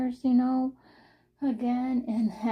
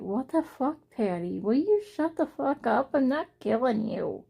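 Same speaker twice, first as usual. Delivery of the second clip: mock exasperated scold; 4 semitones higher than usual. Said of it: "I even said on video".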